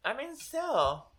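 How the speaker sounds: talking through a mouthful; wolfing down food. Real, not acted. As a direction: mouth full of food, eating hungrily. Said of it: "I'm sorry, I'm eating".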